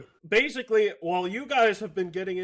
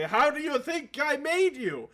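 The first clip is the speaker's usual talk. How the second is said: higher, odd-timbred god scoffing; mocking god voice; 5 semitones higher, 3 dB louder than usual. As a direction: scoff like a crude deity. GM voicing Green Man retort.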